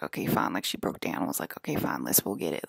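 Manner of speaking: low unvoiced giving in; a sighing mom caving in.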